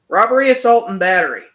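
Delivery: excited loud title announcement; announcing. Real, not acted. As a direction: announce the song name with a punch.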